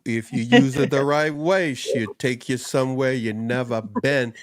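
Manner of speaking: put-on a rough try at a New York accent. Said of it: "the best I can do with a New York accent".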